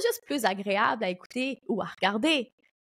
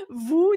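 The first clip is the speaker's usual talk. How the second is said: VOUS said higher with a jolt; stress on VOUS; 5 semitones higher, 5 dB louder than usual. Real, not acted. Podcaster correcting herself to address listeners, stress on VOUS. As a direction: punch VOUS as a sudden correction.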